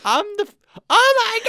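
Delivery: loud, high-pitched mock Scottish accent. Host imitating abridged Meliodas, shouted Scottish accent. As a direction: yell it in an exaggerated Scottish accent. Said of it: "like, a Scottish accent".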